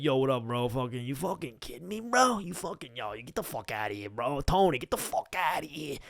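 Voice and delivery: imitating a Long Island bro; Long Island tough-guy accent, mock. Mocking former classmates, Long Island bro accent. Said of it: "they'd be like".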